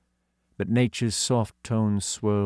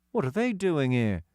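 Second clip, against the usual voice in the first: put-on puzzled, higher boy's voice; bewildered question; boy confused at the diggers; confused child; 7 semitones higher than usual. A narrator's reading. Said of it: "squished together in confusion".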